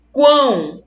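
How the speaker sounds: "Quão" drawn out through the nose; nasal pronunciation. Shown as a demonstration. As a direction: say "Quão" with a full nasal ending. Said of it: "pronunciei totalmente trepidação aqui nas vias nasais".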